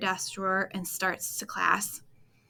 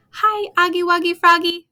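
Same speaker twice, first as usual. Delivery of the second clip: higher and louder, silly singsong hello; playful greeting; 9 semitones higher, 10 dB louder than usual. Acted. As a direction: greet the frog like a goofy kid. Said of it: "Kirk greets me".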